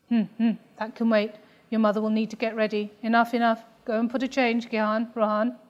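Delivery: lightly voiced dad, brisk and impatient; father hurrying the kids.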